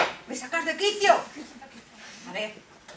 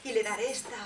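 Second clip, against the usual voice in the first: scheming chuckle; 4 semitones lower, 10 dB quieter than usual. Acted. Queen plots with laugh.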